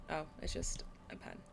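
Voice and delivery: soft deflated mutter; disappointed, soft and quiet; letdown. Real, not acted. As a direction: let the air out of it. Letdown after find.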